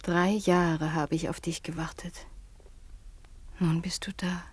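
soft, unvoiced longing; tender whisper. Daughter tells her returned fiancé she waited, a tender whisper. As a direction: whisper it to him alone. Waited three years for him.

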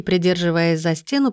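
plain reading voice

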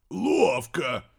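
impressed exclaim; approving. A narrator's reading. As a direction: praise the trick. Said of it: "одобрил дедушка Похмус".

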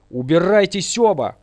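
loud, high, forceful command; shouted order. A narrator's reading. Ghost orders both intruders out, loud command. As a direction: throw them both out at full voice. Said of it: "приказал я".

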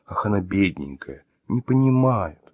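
sickly-sweet fake sympathy; cloying mock pity. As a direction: coo it with exaggerated pity. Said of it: "Голос Артёма сделался приторно-жалостливым".

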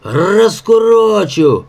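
high, drawn-out roar; menacing growl. A narrator's reading. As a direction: growl it out slowly as a threat. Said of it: "рычал Егорыч". (грозный протяжный рык)

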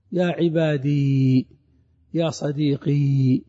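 slow, the final ya held silent; يا عبادي and يا صديقي ending on a bare i with no vowel after; pausal form with silent ya. Shown as a demonstration. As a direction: stop on the word with ya unvoiced. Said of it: "فإنك ستقف عليها أيضًا بالسكون".

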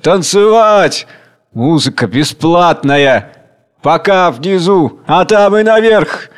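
high, loud gleeful cries; giddy with greed; ecstatic squeal. Acted. Rioters squealing with delight about food and dancing. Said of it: "Восторженный визг".

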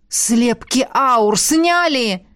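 slow, drawn-out howl; howled in unison. Acted. Rector and colonel howl together in shock, slow and drawn out. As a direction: stretch each word into a howl. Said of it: "взвыли ректор и полковник".

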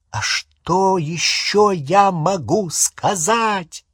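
high and slow yelled retort; exasperated yell. Acted. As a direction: shout it back in exasperation. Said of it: "заорал Рон".

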